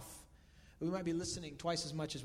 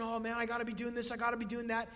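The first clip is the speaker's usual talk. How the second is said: mock stressed; 4 semitones higher, faster than usual. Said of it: "He's not stressing".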